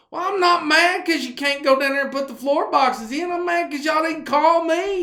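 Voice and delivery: a lightly hammed-up aggrieved boss; imitating the boss. Boss to workers who skipped calling him, mock aggrieved. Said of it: "He goes".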